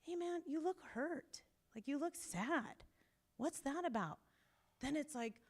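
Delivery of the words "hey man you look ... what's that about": softer, higher, caring check-in; gentle, soft concern. Shown as a demonstration. Therapist softly asking a hurting man how he feels. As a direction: ease in gently, like noticing someone's pain. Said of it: "But if I go".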